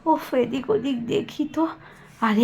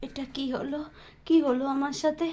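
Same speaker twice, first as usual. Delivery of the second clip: paralysed fear; 6 dB quieter than usual. Acted. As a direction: whisper your panic, unable to move. Paralysed victim, frightened. (অবশ হয়ে ভয়ে ফিসফিস)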